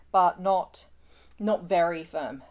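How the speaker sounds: words squeezed out while stifling a sneeze; fighting off a sneeze mid-sentence; holding back a sneeze. Real, not acted. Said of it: "Sorry, I'm trying not to sneeze".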